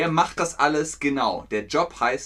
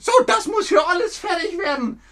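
very high, loud shouted order; furious foreman yelling at his apprentices; boss yelling; 6 dB louder than usual. Retold or imitated. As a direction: bellow it at the workers like an angry master. Meister Röhrig shouting in scene.

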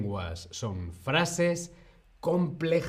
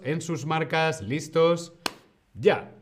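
race starter; 3 semitones higher than usual. Pretend. Mock race start before the exercise.

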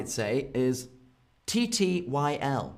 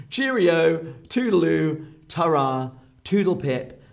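put-on jolly old-fashioned goodbyes. Shown as a demonstration. Teacher playfully models silly British goodbyes, jolly and bouncy. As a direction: chirp them like a jolly old gent. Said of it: "these are not serious".

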